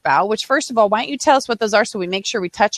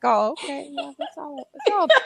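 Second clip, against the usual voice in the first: mock casual; 2 semitones higher, 6 dB quieter than usual. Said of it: "I'm like".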